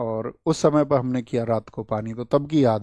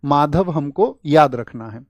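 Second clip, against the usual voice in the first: slow repeat; 4 dB louder, slower than usual. Shown as a demonstration. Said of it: "क्या बोलेंगे?".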